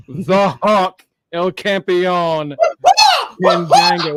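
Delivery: champion intro, loud; announcer shout. Acted. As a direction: call it out like a ring announcer.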